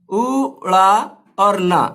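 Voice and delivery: "उड़ा" and "ना" said slowly as parts; slow split word. Shown as a demonstration. Teacher splitting the word slowly for students. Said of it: "लिखना इस तरह पड़ेगा".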